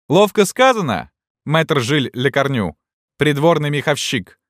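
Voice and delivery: high, mocking cheer; little student's shout. A narrator's reading. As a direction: jeer from up on a perch. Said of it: "закричал маленький студентик".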